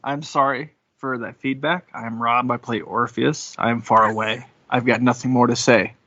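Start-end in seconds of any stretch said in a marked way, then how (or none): none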